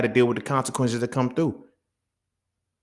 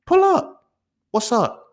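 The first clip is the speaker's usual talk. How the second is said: much higher, louder barked dare; shouted dare; 12 semitones higher, 4 dB louder, slower than usual. Retold or imitated. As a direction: yell the challenge to fight. Daring the guy to fight.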